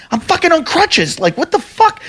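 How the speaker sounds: very high, squeaky mock protest; retold panic. Reliving panic, unable to flee.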